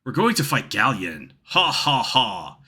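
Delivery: incredulous repeat with a slow, forced laugh; mocking echo. Nash ridiculing plan to fight Galleon, mocking disbelief. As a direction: scoff at the plan, then fake a deliberate laugh.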